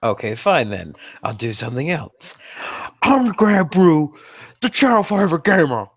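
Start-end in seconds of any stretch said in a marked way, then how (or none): 3.0-5.9 put-on Welsh accent. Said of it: "He's trying to do a Welsh accent for you all".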